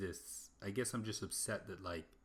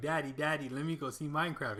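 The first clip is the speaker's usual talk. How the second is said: put-on high, loud, pleading small child voice; 7 semitones higher, 7 dB louder than usual. Retelling a joke about a child asking the dad: imitating a child. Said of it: "his child is like".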